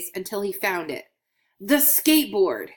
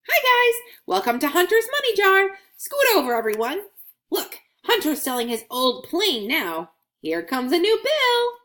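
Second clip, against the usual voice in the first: higher and louder, bubbly little coin greeting; welcoming coin; 10 semitones higher, 4 dB louder than usual. Acted. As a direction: greet new coins joining the jar. Coin voiced in children's story.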